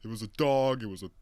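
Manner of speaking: same voice as the other character, barely changed; retold movie character. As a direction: recount it in character with punchy stresses. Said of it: "They sound exactly the same".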